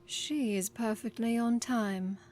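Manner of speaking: slow, haughty put-down with a sniff. Acted. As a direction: look down your nose at him. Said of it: "said with a sniff".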